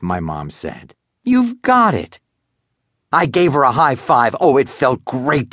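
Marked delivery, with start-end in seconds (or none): 1.2-2.2 higher, lightly voiced mom; a hint of a proud mom.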